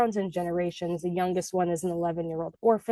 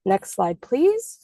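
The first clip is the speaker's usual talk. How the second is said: sing-song request; much slower than usual. Real, not acted. Slide request.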